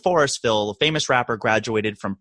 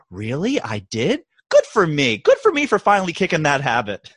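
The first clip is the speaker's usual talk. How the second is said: pleased surprise. Retold or imitated. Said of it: "she turns and she goes".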